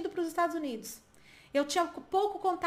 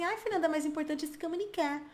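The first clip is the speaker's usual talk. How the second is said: higher-pitched imitation of a learner's excuse; objecting student; 4 semitones higher than usual. Teacher imitating a student who protests to her, mock objection. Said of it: "você fala assim".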